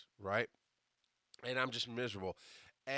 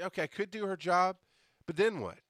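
higher, questioning self-quote on "job"; quoting his own thoughts; 6 semitones higher, 3 dB louder than usual. Retold or imitated. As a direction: lift "job", then drop "but then what". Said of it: "I say".

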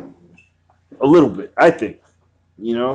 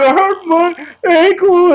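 high, slow whimpering mock voice of the hurt girl; mocking the injured girl's whine; imitating crying girl; 5 dB louder, slower than usual. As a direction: squeak it out like a sobbing woman. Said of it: "She was like".

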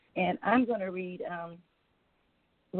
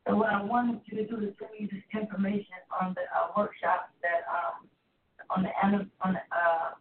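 faint and far away on speakerphone; distant phone voice through a speaker; 2 semitones higher than usual. Real, not acted. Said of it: "you sound so far away".

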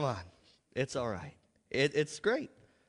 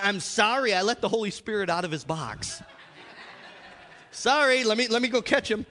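mock apology; 3 semitones higher than usual. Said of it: "what do you want me to say?".

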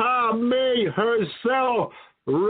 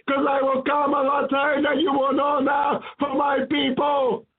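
raised, forceful call; commanding shout as Jesus; 4 semitones higher than usual. Retold or imitated. Jesus warning his people from the throne, commanding shout. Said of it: "And he says".

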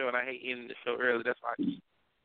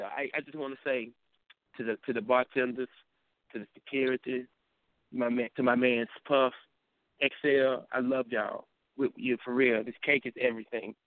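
low, lightly acted thank-you speech; halting roll call of thanks, pitched down; Ramsey; 3 semitones lower than usual. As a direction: play a touched, humble speech in a lower voice. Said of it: "do your impression of Ramsey".

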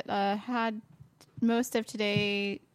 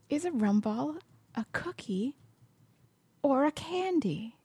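whispering; 2 semitones higher, 5 dB quieter than usual. Real, not acted. Musing to herself, whispered.

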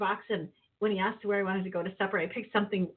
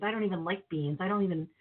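ordinary talk, nothing marked

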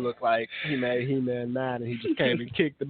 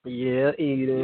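drawn-out hype; 3 semitones lower, slower than usual. Real, not acted. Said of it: "hyping Eden to take over".

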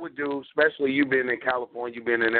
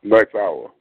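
booming, proud salute; loud rallying call; 4 semitones lower, 9 dB louder than usual. Real, not acted. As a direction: call it out strong. Call-and-response greeting on call.

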